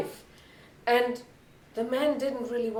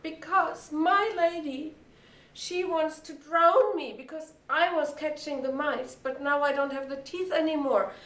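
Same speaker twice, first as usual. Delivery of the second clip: slightly raised, complaining cat; lightly voiced unhappy cat; 3 semitones higher than usual. Old cat explains her troubles to new friends, mildly plaintive.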